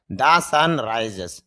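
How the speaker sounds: "The sun rises" stretched out very slowly; slow repeat. Shown as a demonstration. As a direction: drag each word of "The sun rises" out. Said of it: "teacher repeats example slowly". ("The sun rises" খুব ধীরে টেনে বলা)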